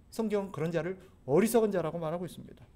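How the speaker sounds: ordinary delivery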